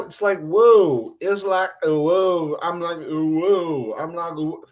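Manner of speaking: slow, drawn-out hip-hop "whoa"; hip-hop-ish. Acted. Host tries out being hip-hop-ish, drawn-out whoas. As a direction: try a half-baked hip-hop flow. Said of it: "don't try to be hip-hop-ish".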